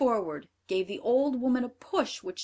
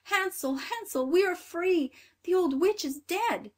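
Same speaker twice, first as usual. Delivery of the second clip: much higher, louder calls of relief; joyful cry; 10 semitones higher, 5 dB louder than usual. A narrator's reading. Grethel freeing Hansel, high overjoyed shout. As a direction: shout the news to him in joy. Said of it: "and cried".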